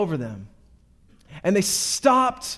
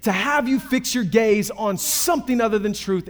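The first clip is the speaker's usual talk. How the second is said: lightly voiced enemy, higher and hurried; a hint of an eager, overworking tempter; scheming enemy; 5 semitones higher than usual. Enemy working overtime to distract believers, lightly voiced scheming. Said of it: "so he just works overtime".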